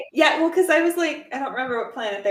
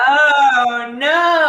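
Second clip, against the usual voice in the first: surprised realization; 4 semitones higher, 7 dB louder than usual. Real, not acted.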